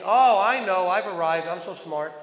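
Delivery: a hammed-up boast from a self-made expert; mock smugness. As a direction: play the know-it-all who thinks he's arrived. Mocking know-it-all teachers.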